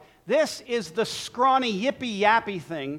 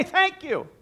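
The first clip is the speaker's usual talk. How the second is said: grateful thanks; 10 semitones higher than usual. Shown as a demonstration. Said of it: "Just receive it and say".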